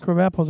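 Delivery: "Crab apples" said as "crob apples". Shown as a demonstration. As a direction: open "crab" to rhyme with "rob". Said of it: "I like to call crab apples".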